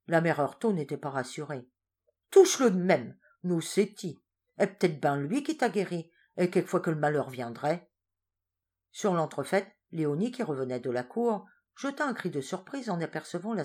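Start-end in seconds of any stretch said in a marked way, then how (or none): 2.3-7.9 louder, lightly voiced fretful peasant; wife urging husband to touch the saint anyway; insistent old wife. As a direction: insist anxiously.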